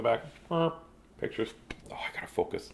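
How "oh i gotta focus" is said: whispered note to self; barely audible self-reminder; muttered aside. Real, not acted. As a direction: drop to a soft, low whisper.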